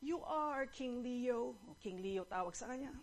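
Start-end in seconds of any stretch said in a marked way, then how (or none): 0.0-1.6 slow, drawn-out submissive reply; slow, deferential rabbit; rabbit's answer. Acted. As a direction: stretch the words out obediently. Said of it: "said to the rabbit".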